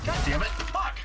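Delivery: high, loud frustrated outburst; angry yell. Real, not acted. Angry at a missed hit in game.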